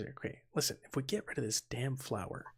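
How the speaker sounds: hushed, soft, breathy half-whisper. Playing a character who leans down to strike a deal: whispering. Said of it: "he leans down and he kinda whispers".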